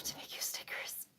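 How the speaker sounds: gentle whisper. Real, not acted. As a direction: hush it warmly. Answering email, whispers.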